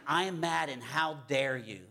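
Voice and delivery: mildly outraged, stressing the offense; indignant. Retold or imitated. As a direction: voice a touch of righteous indignation. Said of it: "Indignant means".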